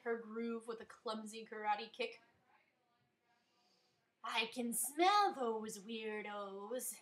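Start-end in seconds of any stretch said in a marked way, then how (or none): 4.2-7.0 ecstatic. A narrator's reading. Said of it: "Amy said ecstatically".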